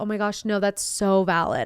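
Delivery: ordinary delivery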